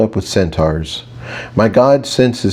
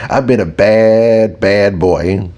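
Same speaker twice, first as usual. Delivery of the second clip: teasing plea; slower than usual. Acted. Teasing fantasy about Thor.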